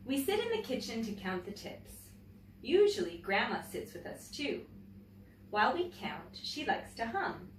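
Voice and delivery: put-on reading a picture book aloud to children; gentle, clear storytelling for young listeners; story reading. A narrator's reading. Teacher reading a picture book to her class, storytelling voice.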